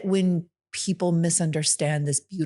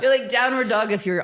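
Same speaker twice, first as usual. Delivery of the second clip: laughing; 5 semitones higher, 4 dB louder than usual. Real, not acted. Bawdy joke about yoga poses.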